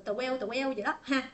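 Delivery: "tờ queo" for twelve, extra vowel after t; common learner mispronunciation. Retold or imitated. Teacher mimicking learners' mistaken twelve, mispronounced as "tờ queo". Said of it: "rất nhiều bạn cũng không có nói được".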